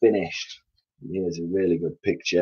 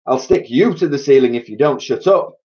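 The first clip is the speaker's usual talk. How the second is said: irritated, raised, higher retort; snapped threat; 5 semitones higher, 4 dB louder than usual. A narrator's reading. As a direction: snap at a cheeky child. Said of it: "snapped Mugglewump".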